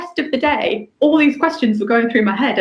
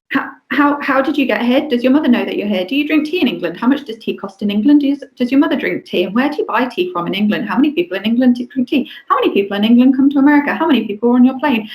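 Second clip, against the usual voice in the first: put-on rapid child questions; 3 semitones higher, faster than usual. Little camp boy quizzing a tired adult, fast eager childlike voice.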